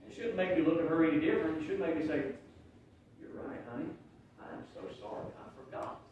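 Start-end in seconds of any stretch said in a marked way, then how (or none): 3.2-6.0 whispered, meek sorry to his wife; husband quietly apologising to his wife for forgetting the bill; hushed apology. Retold or imitated. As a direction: say it small and contrite, almost breathless.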